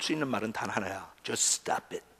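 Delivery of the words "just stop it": hushed, barely voiced command; quietly firm. Shown as a demonstration. Preacher offering the only words to say, quietly firm. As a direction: say it softly and low-key. Introduces the one phrase to say.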